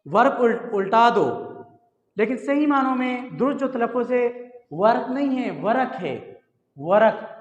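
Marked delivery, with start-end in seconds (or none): 5.6-7.3 वरक split into two open syllables, va-rak; teacher models वरक clearly; correct pronunciation. Shown as a demonstration. Tutor shows students the correct वरक. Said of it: "रे के ऊपर ज़बर है".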